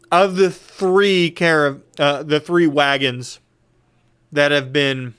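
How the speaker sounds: talking with mouth full; words round a bite of food. Real, not acted. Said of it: "I apologize for talking with my mouth full".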